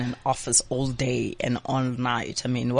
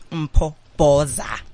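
hype announcement; 6 dB louder, much slower than usual. Real, not acted. Host announces guest grandly.

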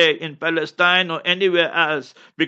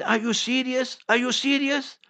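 higher, incredulous mock voice; mock disbelief, pitched way up; mocking Netanyahu impression; 7 semitones higher, 4 dB quieter than usual. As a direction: sneer it back as the scoffing prime minister. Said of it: "He said".

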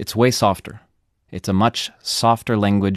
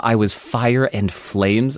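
slow literal translation; much slower than usual. Shown as a demonstration. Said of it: "I don't know how to translate".

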